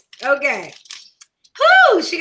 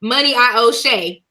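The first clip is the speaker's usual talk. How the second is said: laughing outburst. Real, not acted. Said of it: "How she just gonna make a whole thing".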